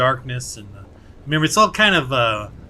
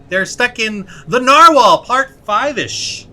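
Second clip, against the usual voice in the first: dramatic intro; 7 semitones higher, 8 dB louder, slower than usual. Shown as a demonstration. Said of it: "Trying to make this intro a little more exciting".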